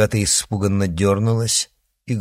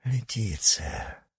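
slow, soft and shaken; stunned; 5 dB quieter, slower than usual. A narrator's reading. Heir realises who sent the witch, stunned. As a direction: let the shock sink in as you say it. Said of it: "потрясённо произнёс парень".

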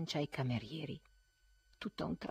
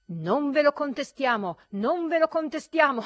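loud, higher, mocking through laughter; jeering laughing agreement; laughing reply; 10 semitones higher, 10 dB louder than usual. A narrator's reading. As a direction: laugh him off as you answer. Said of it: "gli risposero ridendo".

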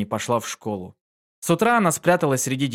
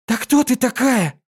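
put-on high loud slow child's yell; filly shouting at her mother; shouting back; 11 semitones higher, 4 dB louder than usual. A narrator's reading. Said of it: "закричала Динки в ответ".

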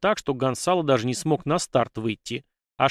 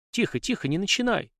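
soothing; 7 semitones higher than usual. Acted. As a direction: settle your hot-headed friend down. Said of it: "успокаивающе похлопал".

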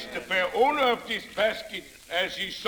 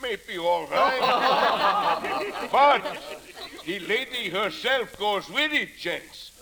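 laughing auctioneer. Acted. Auctioneer selling the teacher's box.

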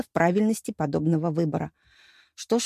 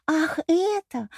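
coquettish; 9 semitones higher, much slower than usual. A narrator's reading. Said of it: "с улыбкой ... кокетливо поправила".

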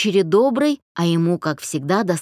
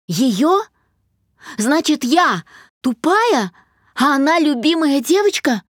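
much higher and louder, indignant; a hurt daughter's shrill protest; louder, rising; 7 semitones higher, 4 dB louder than usual. A narrator's reading. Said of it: "Голос Даши зазвучал громче". (дочь возмущённо повышает голос)

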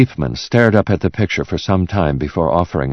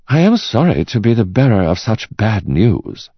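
lightly voiced, higher-pitched expert; apologetic art expert; 6 semitones higher than usual. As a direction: break bad news formally, a little higher. Expert apologises for bad news.

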